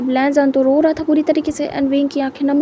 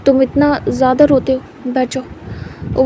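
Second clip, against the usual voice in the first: gentle. Acted. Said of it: "धीरे से बिठा देता".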